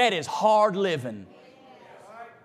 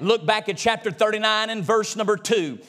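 usual speaking voice

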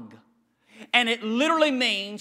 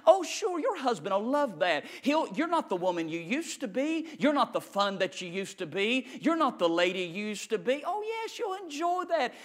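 devil's sneer; 3 semitones higher than usual. Retold or imitated. Devil sneering at a wife who turned to God. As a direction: purr it like the devil mocking. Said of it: "that's what he tells you".

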